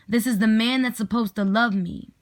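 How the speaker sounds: the title line weighed as a refrain; poem refrain, deliberately paced. Acted. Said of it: "do a poem called".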